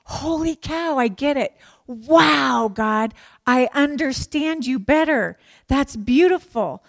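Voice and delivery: mock-awed breakthrough, emphatic on the wow; playing astonished delight; amazed realization. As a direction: act out a sudden happy discovery. Acts out sudden understanding of scripture.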